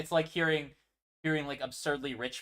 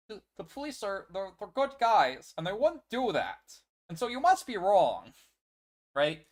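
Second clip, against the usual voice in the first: mock Caitlyn; 7 semitones higher, 5 dB louder than usual. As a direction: parody her blind faith in the police. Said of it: "'cause she says".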